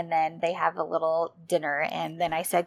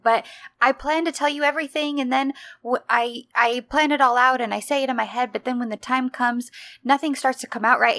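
fast, higher nervous babble; babbling; 4 semitones higher than usual. Retold or imitated. Shy man explaining himself to her, fast babbling. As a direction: tumble the words out in a flustered rush. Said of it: "And he's kinda babbling".

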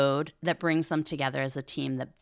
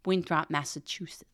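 put-on a whispered, half-hearted try at a New England accent on "Winthrop, Massachusetts"; trying out a New England accent in a whisper, then giving up. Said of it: "No, I can't do the, the New England accent".

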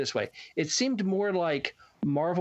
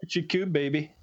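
put-on baby talk. Cooing at a baby.

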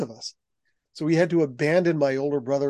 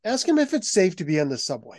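higher, louder worried mother pleading; nervous mom; 7 semitones higher, 4 dB louder than usual. Retold or imitated. Mother nervous in New York, urging her son to ask, higher worried voice. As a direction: play the anxious mom, pitched up.

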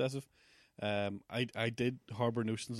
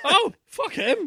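dismissive scoff; 11 dB louder, much slower than usual. Retold or imitated. Acted dismissive reply, slow.

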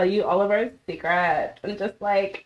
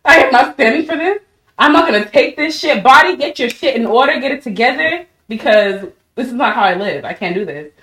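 fed-up rant; 2 semitones higher, 4 dB louder than usual. Retold or imitated. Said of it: "And I was like".

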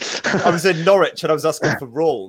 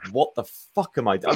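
Sir Patrick Moore; 3 semitones lower, 5 dB quieter than usual. Retold or imitated. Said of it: "Sir Patrick Moore just being like".

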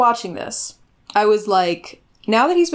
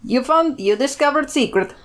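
mock Russian accent; 5 semitones higher than usual. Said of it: "Mother Russia".

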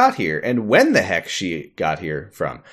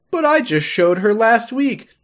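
higher, slower indignant protest; mock indignant dad; 9 semitones higher, slower than usual. Pete defending Jackie to Rose, mock indignant and higher. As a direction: protest like a hurt father. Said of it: "And he's like".

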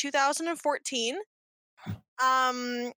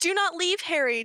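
hammed-up whiny cousin; childish wail; 6 semitones higher than usual. Dudley begging Harry not to go, mock wail. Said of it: "Dudley wailed childishly".

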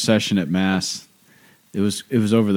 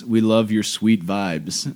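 put-on deadpan child; slower than usual. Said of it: "we miss you".

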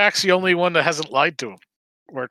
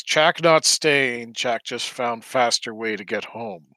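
broken-English character; 2 semitones lower, slower than usual. Acted. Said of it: "looks at the group and says".

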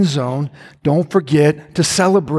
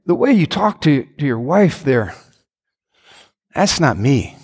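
lower, gentle rebuking voice of God; 4 semitones lower than usual. Retold or imitated. God gently rebuking husband, lower calm voice. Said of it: "but when God says".

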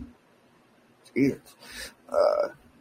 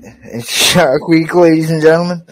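announcer voice; 4 semitones higher, 7 dB louder than usual. Real, not acted. Announcing to viewers.

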